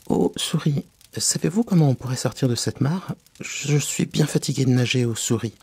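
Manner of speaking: appealing Alice. Acted. Alice asks the mouse the way out, politely pleading. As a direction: call out courteously for help.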